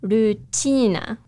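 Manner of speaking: Rutina said slowly, between "tee" and "chee"; Rutina, slow, the t halfway to a ch; Japanese pronunciation. Shown as a demonstration. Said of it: "but in Japanese, it's almost between".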